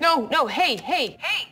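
loud, frantic protests; urgent shouting. Real, not acted. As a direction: yell to stop the tape. Trying to stop the message playing.

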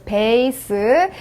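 "베이스" drawn out slowly with a b; B pronunciation. Shown as a demonstration. Teacher reading base as written, slow b in "베이스". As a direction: stretch "베이스", lips closed at the start. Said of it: "그대로 있으면 베이스라고 읽었겠죠".

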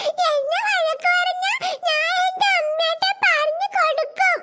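slow, high tearful threat; crying child. Acted. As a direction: whimper it like a hurt little kid. Child cries and threatens to tell. (കരഞ്ഞുകൊണ്ട് കുട്ടിയുടെ ഭീഷണി)

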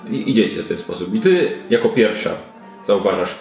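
ordinary delivery

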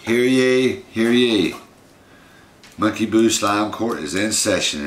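loud, high town crier proclamation; mock royal decree. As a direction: proclaim it like a herald. Announcing slime court.

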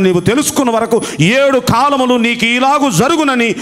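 solemn, measured reading of scripture. Acted. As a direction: proclaim the verdict like holy writ. Reads Daniel's proclamation aloud.

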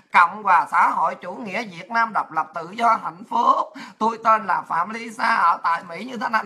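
low recital with no line breaks; run-on essay recital. Retold or imitated. Lisa writing it like one long essay, low run-on recital. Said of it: "ghi giống như là Lisa mà ghi một bài luận văn".

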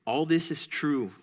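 slow, hushed, near-whispered reply; humble pilgrim's admission. Acted. Reads Christian's reply in storybook.

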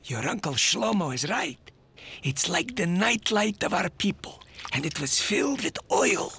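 gentle storytelling. Acted. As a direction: tell it tenderly to kids. Grandpa picks up the story.

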